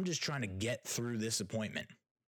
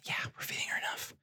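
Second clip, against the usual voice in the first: quick whisper; whispered answer; faster than usual. Real, not acted. Answering her own question, quick whisper. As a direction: hiss the answer fast. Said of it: "whispered self answer".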